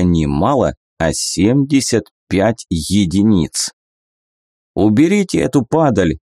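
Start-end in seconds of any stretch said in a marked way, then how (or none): 4.7-6.2 shout. Acted. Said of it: "крикнул он Трегу".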